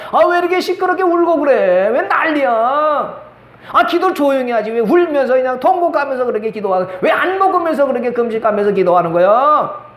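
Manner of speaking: lightly acted irritated scolding; 엘리 제사장. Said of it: "정신 나간 엘리 제사장이 와서 그랬더니". (살짝 짜증 섞어 나무라는 말투)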